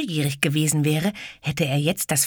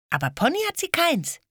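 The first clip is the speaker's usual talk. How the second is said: put-on triumphant girl.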